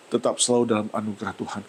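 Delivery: fast repeat of "tetap selalu dalam anugerah Tuhan"; quick restatement. Shown as a demonstration. Pastor repeating the line to the congregation, fast.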